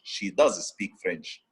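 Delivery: slow sentence, weight on "does"; emphatic DOES. Shown as a demonstration. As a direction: stress "does" to confirm the fact. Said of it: "Just to emphasize".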